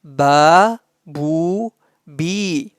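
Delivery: Ba, bu, bi slow with long vowels; stretched vowels. Shown as a demonstration. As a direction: draw each vowel out, teaching pace. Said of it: "Like this". (مدّ واضح وبطيء للحركات)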